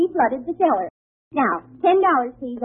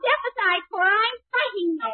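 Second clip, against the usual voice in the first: excited anger; 4 semitones higher than usual. Acted. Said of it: "I did get sort of, uh, excited".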